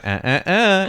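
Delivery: high, loud little "uh, uh, uh"; imitated wordless sounds. Imitating what she just went, mock wordless sounds. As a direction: toss out three mimicked grunts. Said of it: "She just went".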